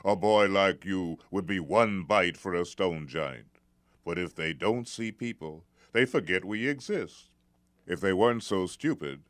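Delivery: lightly voiced warning father; serious parent cautioning his boy; a hint of a stern father.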